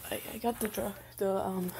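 nervous stammer on each start; stuttering. Acted. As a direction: trip over the words shyly. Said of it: "Sorry if I'm stuttering".

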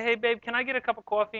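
put-on New York accent. Husband asking his wife for coffee, in a New York accent. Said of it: "I'm not making fun of your accent".

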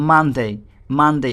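"মানডে" in two clear syllables, মান-ডে; pronunciation demo. Shown as a demonstration. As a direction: model "মানডে" twice, with a pause between. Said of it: "এরকম হবে". ("মানডে" স্পষ্ট করে উচ্চারণ)

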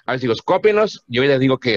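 teacher calling the class to order. Real, not acted.

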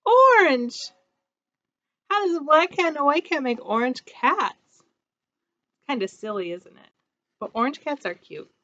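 bright, lively storybook voice; reading to children. A narrator's reading. Teacher reading a picture book to her class, bright and lively. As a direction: read it like storytime for little ones.

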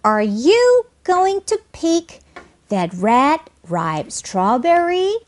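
high start, slow units, "strawberry" rising; deliberate model question ending up on "strawberry"; rising yes-no question. Shown as a demonstration. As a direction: lift "strawberry" steadily to the very end. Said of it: "이렇게요".

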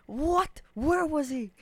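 high, bewildered what; imitating a baffled player; mock confused player. Mocking the blue guy's confused reaction, high and puzzled. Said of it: "And he's like".

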